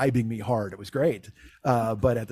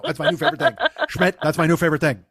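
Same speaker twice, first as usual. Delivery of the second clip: imitating Bob cracking up; 2 semitones higher, 4 dB louder than usual. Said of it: "Bob is fucking rolling".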